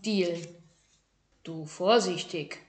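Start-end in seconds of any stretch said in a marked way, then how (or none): 1.4-2.6 warning. Acted. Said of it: "warnte Meister Ming".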